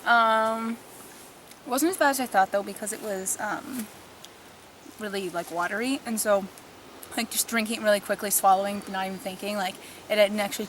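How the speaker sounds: talking while chewing gum; words round a piece of gum. Real, not acted. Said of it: "That's why I'm chewing gum right now".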